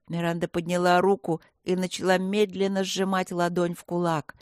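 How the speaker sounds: plain reading voice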